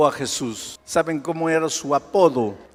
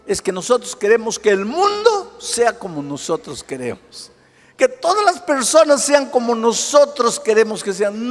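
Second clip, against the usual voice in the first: loud, rising sermon cadence; preacher pounding the refrain; fiery preaching; 9 semitones higher, 7 dB louder than usual. Acted. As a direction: hammer each point home to the congregation. Preaching at full force.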